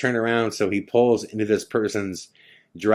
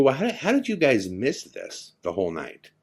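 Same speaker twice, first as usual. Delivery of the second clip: higher-pitched, acted disbelief; incredulous; 5 semitones higher than usual. Passenger questions friends who missed the road all night, incredulous. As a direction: challenge them, voice pitched up in disbelief.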